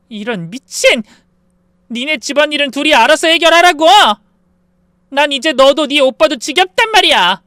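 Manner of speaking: loud, high raging yell; wife shrieking at sister-in-law; furious scream. A narrator's reading. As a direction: scream her off you. Fight, narrator screams back.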